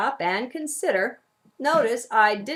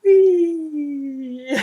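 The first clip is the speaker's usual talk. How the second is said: echoing ghostly filter on voice; trippy ghost effect; 6 semitones higher, 9 dB louder than usual. Shown as a demonstration. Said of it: "This one is called I See a Ghost".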